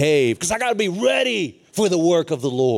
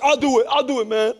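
raised, lightly imitated student; eager volunteer; 7 semitones higher, 4 dB louder than usual. Picked student to the preacher, lightly eager volunteer. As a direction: jump in with a higher, keen voice.

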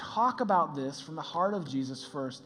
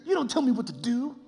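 bossing your money; 6 semitones higher than usual. Pretend. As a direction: scold your money like a stern boss. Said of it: "take your water birds and go".

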